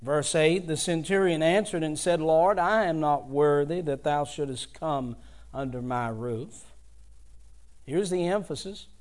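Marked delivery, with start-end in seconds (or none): 0.7-6.7 formal Bible reading voice; scripture reading. Acted. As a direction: read the verse to the congregation with weight. Reads the scripture text aloud.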